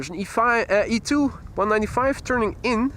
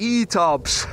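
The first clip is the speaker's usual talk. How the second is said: laughing; 4 dB quieter than usual. Pretend. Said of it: "Suggest you pronounce that in Yorkshire accent".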